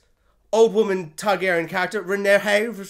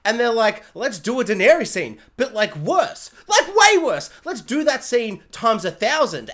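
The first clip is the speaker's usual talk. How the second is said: arrogant writers; 3 dB louder than usual. Retold or imitated. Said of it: "they arrogantly thought".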